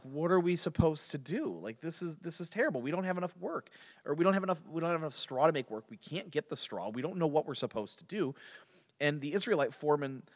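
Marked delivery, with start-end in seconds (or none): 0.0-8.3 higher-pitched, exasperated complaint; distressed complaint. Retold or imitated. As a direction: voice the foremen's helpless grumbling. Foremen's distressed complaint acted out.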